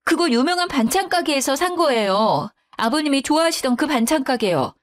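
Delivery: indignant protest. A narrator's reading. Daughter-in-law defending shop-bought dishes, indignant. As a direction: argue back, hurt and cross.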